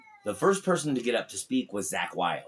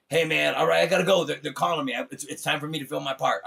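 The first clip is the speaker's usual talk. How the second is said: hurried loud goodbye; 4 semitones higher, 5 dB louder than usual. Retold or imitated. A musician leaving for the shoot.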